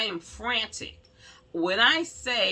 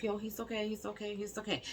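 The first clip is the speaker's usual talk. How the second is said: reassuring; 4 semitones higher, 8 dB quieter, faster than usual. Retold or imitated. Retold aunt reassuring at hospital.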